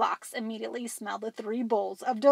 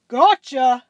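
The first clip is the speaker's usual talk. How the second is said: dinosaur yell; 2 semitones higher, 10 dB louder than usual. Acted. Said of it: "a dinosaur yelling".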